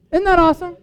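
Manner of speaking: high, bright delighted exclamation; a sudden thrilled aside to the congregation. Real, not acted. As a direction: gush over it with real delight. Delighted aside after praying for leaders.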